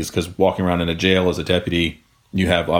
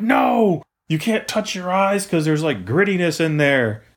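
much higher put-on voice of a fussy trainer; mock instructor; 9 semitones higher than usual. Mocking the academy trainer's warning, high nagging put-on voice. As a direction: play the nagging trainer, pitched way up. Instructors giving orders after spraying.

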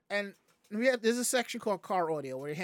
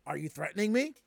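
movie quote; faster than usual. Retold or imitated. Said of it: "live action Scooby-Doo".

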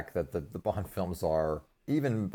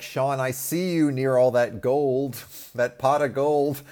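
1 mock demanding Neil; 6 semitones higher, 5 dB louder, slower than usual. Voicing Neil demanding money.

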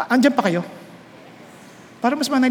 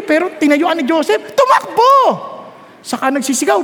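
usual speaking voice

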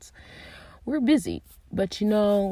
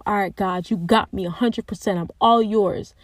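eager vow; 6 dB louder than usual. Retold or imitated. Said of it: "tell myself".

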